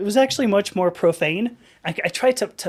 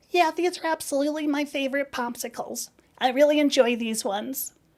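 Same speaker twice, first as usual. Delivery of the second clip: high-pitched put-on woman's voice; 6 semitones higher, 4 dB quieter than usual. Retelling what a woman said to her, imitating the woman's voice. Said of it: "I can nail this voice".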